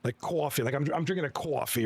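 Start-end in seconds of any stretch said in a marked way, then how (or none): 0.2-0.6 amateur New Jersey accent with a rounded vowel; rough Boston-Jersey accent. Shown as a demonstration. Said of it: "I can't do the accent too good". 1.3-1.9 amateur New Jersey accent with a rounded vowel; rough Boston-Jersey accent. Shown as a demonstration. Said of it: "I can't do the accent too good".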